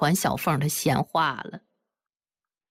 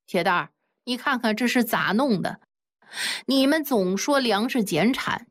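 angry scolding; 4 semitones higher than usual. Acted. Old man scolds son over wheat.

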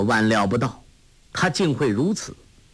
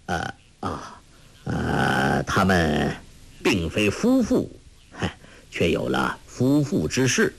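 hesitant; 6 semitones lower than usual. Acted. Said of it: "一时不易措辞，微一踌躇".

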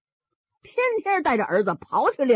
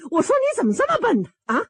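much higher, louder, fast scolding; exasperated scolding; 13 semitones higher, 4 dB louder, faster than usual. Acted. Mother scolds her stuttering son, exasperated. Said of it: "这盖子奶奶可急了".

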